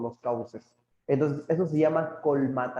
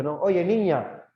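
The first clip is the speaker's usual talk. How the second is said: mock scolding; 3 semitones higher, 4 dB louder, slower than usual. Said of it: "podía haber dicho".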